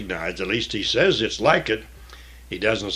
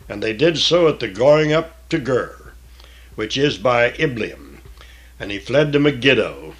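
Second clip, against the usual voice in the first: measured, solemn Bible reading; scripture reading; 3 dB louder than usual. Acted. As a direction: read the King James text with weight.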